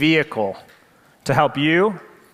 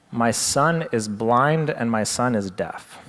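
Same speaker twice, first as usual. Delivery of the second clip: mother's answer; 3 semitones lower, slower than usual. Retold or imitated. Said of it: "his mother said".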